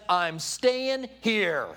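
slow, drawn-out stubborn refusal; lightly acted mulish refusal; stubborn mule. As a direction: dig in, stretching the words out slowly.

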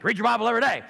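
put-on parroting voice; obnoxious mocking. Answering a friend's question with a teasing catchphrase. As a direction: needle him with the catchphrase. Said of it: "So I'm just being obnoxious".

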